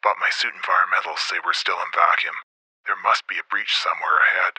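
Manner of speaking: soft, low radio mutter; muttering into the mic. A narrator's reading. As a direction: murmur it low over the helmet radio. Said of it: "Fath muttered in his mic".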